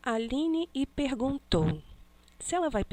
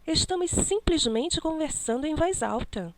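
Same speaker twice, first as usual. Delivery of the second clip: exclaimed; 6 semitones higher than usual. Shown as a demonstration. Teacher reading the dialogue aloud, with exclamatory intonation. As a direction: read it as an exclamation, pitch up. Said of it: "ela deu uma entonação maior aí".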